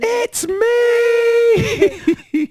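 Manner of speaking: big high shout of pride; bursting, triumphant scream. Retold or imitated. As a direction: yell it over the crowd at the top of your voice. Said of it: "I wanted to scream at the top of my voice".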